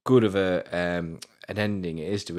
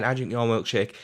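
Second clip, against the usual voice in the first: lightly voiced film-villain impression; Daniel's milkshake line; 3 semitones higher than usual. Quoting Daniel's famous line in excitement, gloating. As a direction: quote it with a hint of the character's accent. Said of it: "Everyone knows the line".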